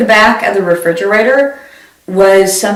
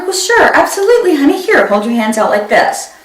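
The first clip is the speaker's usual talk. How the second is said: chirpy mom; 6 semitones higher than usual. Retold or imitated. Mom reassuring daughter.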